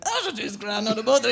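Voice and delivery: put-on words run together in a home accent; unenunciated home accent. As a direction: toss it out without enunciating. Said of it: "cannot understand a word you're saying".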